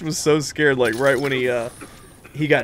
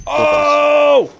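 excited; 11 semitones higher, 6 dB louder than usual. Real, not acted. Shooting a guy out of the sky.

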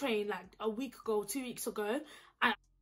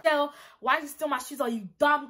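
louder, indignant telling-off; retold angry confrontation; 3 semitones higher, 6 dB louder than usual. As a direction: have a go at her, acting out the message. Retold angry text to shoe thief.

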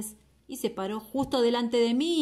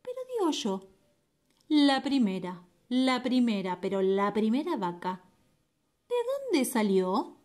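flea voice. Acted. Flea's persistent question, high.

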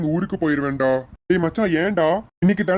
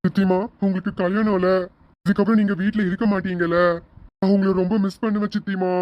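put-on higher-pitched, sad little-kid voice; tearful child; 4 semitones higher than usual. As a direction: play a child upset about being left behind. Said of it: "ஏன் தருண் குட்டி அழுகுற". (அழும் குழந்தையின் குரல்)

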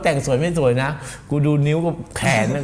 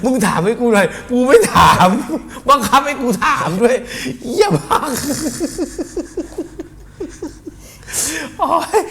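laughing rant; 9 semitones higher than usual. Real, not acted. Laughing rant about forced question.

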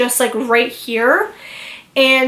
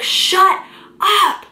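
sharp high mock yell of shut up; retold yell; 8 semitones higher than usual. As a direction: snap it back at her, high and sharp. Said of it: "I screamed at her".

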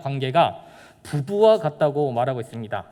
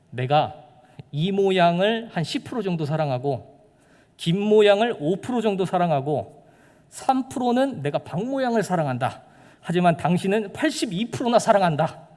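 boastful husband; 4 semitones higher, 3 dB louder than usual. Retold or imitated. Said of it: "당당하게 얘기해요".

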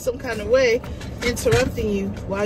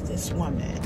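mock whisper; 8 semitones lower, 6 dB quieter than usual. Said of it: "whispering like".

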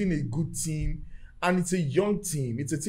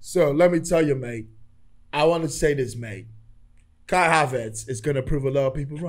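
put-on serious British accent. Shown as a demonstration. Havertz fan telling his mate he's serious, British accent. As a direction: speak earnestly in a British accent. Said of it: "Do you hear my British accent?".

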